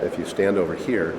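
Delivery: talking inside a resonant, echoing dome; natural room echo. Shown as a demonstration. Host demonstrating the dome's acoustics to a visitor, natural echo. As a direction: voice reverberating off the room. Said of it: "a very natural echo".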